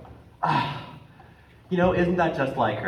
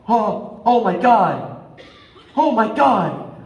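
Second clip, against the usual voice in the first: laughing amazement; 3 semitones higher, 4 dB louder than usual. Acted.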